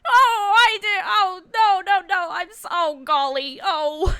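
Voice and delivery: high, loud wailing regret; blubbering, hammed-up lament; distraught clown. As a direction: moan it in rising panic and guilt. Clown realizes he snitched, distraught.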